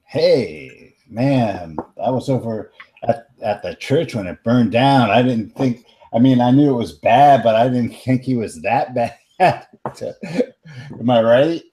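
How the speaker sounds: put-on light Bronx teen New York accent; casual New York accent, Bronx kid. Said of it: "your super sweet New York accent".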